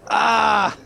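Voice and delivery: high, hearty welcoming voice; Blackjack's greeting. Acted. Halfling boss welcoming the party to his booth, high and hearty. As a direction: throw an arm round them and boom a welcome. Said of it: "Blackjack kinda put his arm over the booth and say".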